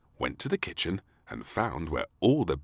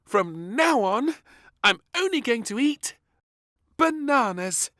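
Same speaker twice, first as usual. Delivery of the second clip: grinning princess; 8 dB louder than usual. A narrator's reading. Princess declares she'll eat only bananas. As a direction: announce it with a big grin. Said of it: "with a big grin".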